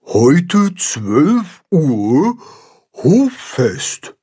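reading the sign aloud. Acted. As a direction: read the sign word by word, slowly. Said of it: "Und Baldrian liest vor".

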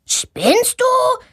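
high, indignant yell; yelling at her. A narrator's reading. Boy yelling at the girl who fell on him. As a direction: snap at her for landing on him. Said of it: "schreit er sie an".

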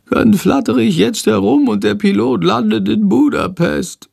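a faint hint of whispering from a small creature; weak bat whisper. A narrator's reading. Sick bat whispering a plan into Jendrik's ear. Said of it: "Shandor flüstert schwach in Jendriks Ohr".

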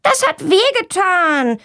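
high, slow scolding; scolding back. A narrator's reading. Girl scolds the boy who made her fall, high and slow. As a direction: scold him back, hurt. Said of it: "schimpft Valentina zurück".

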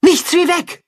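high panicked call to run; panicked flight. Acted. Wolves flee the bear, high panicked call. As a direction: yelp it while fleeing.

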